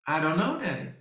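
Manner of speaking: a hint of a small girl, fading at the end; daughter's timid voice. Father imitating his daughter, a hint of a timid girl trailing off. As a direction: imitate her trailing off to a murmur. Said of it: "my daughter just went".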